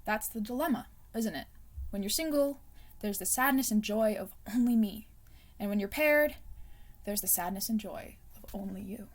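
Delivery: gentle reading with hushed whispered endings. Acted. Reads a blurb aloud.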